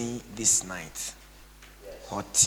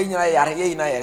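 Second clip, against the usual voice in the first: higher, loud mock consoling; mock loud lament; 7 semitones higher, 9 dB louder, faster than usual. Pastor mocking consolers, louder. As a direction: ham it up.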